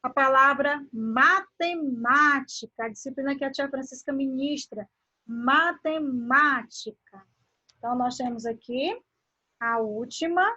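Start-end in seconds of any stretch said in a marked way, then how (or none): 0.9-2.8 matemática slowly, syllable by syllable, with MÁ strong; stress on MÁ. Shown as a demonstration. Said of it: "a posição antepenúltima". 5.3-7.3 matemática drawn out, leaning on MÁ; slow matemática with a long, strong third syllable; stress on MÁ. Shown as a demonstration. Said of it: "a posição antepenúltima".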